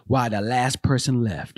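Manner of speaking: a hint of ominous movie-trailer voice; horror trailer title. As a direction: announce it like a horror film title. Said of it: "A Blumhouse production".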